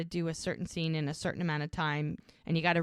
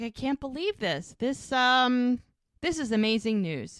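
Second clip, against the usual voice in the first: higher, louder mock delight; thrilled; 6 semitones higher, 5 dB louder than usual. Jack thrilled to hear of the baby, higher and louder. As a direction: gush with joy about the news.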